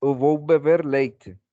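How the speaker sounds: slow, careful Portuguese with "leite" said as lay-tay; teacher models "Eu vou beber leite" slowly for the class; Portuguese example sentence. Shown as a demonstration. Teacher shows students Portuguese "leite", said slowly and carefully. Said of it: "En portugués es leite".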